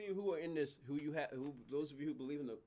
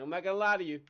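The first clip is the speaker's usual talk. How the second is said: 1 blunt talk to God; 7 dB louder than usual. Retold or imitated. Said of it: "honest conversations with God".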